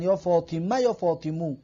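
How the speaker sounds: یا فاطمه then یا فاطمو, final vowel changed from e to o; two endings of the name. Shown as a demonstration. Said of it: "آخرش رو چی حرکت بتین". (تلفظ دو گونه یا فاطمه و یا فاطمو)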